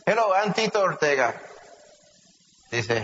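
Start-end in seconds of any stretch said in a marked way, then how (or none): 0.0-1.3 put-on English greeting in a Puerto Rican accent, pitched up. Preacher introduces himself in English, Puerto Rican accent. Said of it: "con el acento puertorriqueño".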